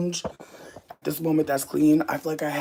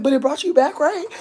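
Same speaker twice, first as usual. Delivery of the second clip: high-pitched quote; 11 semitones higher, 5 dB louder than usual. Retold or imitated. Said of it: "I was like".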